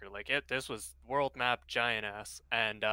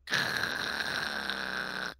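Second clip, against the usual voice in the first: imitated noise; 11 semitones lower than usual. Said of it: "I just hear this".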